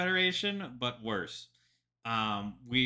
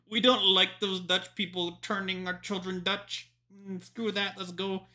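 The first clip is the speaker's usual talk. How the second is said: mocking pilgrims; 8 semitones higher than usual. Retelling the pilgrims leaving the Netherlands, mock whiny voice. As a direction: sneer it like a fussy pilgrim. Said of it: "and then they're like".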